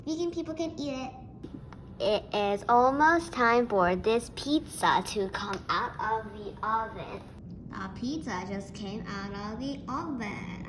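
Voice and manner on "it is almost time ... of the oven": robot voice. Pretend. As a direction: talk like a little robot. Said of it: "I love my robot voice".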